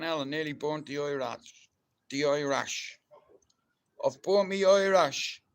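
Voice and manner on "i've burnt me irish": dismayed exclamation. Real, not acted. Burnt his Irish, exclaiming.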